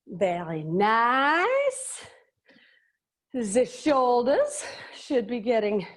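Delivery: put-on slow, playful German accent. Fitness instructor teaching the warm-up in a put-on German accent. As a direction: slip into a hammy German accent. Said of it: "teach in one of the accents".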